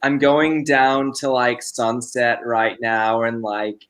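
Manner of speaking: put-on light LA valley-girl accent; LA white girl. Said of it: "The white girl in L A".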